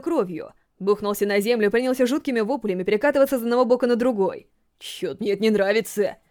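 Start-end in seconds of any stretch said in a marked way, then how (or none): 4.8-6.2 uneasy. Acted. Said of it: "неуверенно сказал".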